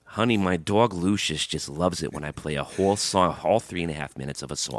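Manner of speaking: lightly hammed-up New York dog-lover accent; put-on New York accent. Dog lover agreeing to play whole songs, put-on New York accent. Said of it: "Can we do those voices".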